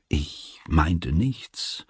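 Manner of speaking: breathless whisper, barely voiced; a frightened boy whispering his answer; whispered reply. A narrator's reading. Son whispers to his strange father, barely voiced.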